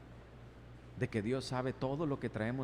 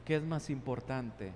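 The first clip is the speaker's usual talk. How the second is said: tender God; 3 semitones lower than usual. Acted. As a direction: gently reason with Cain. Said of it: "Le estaba diciendo".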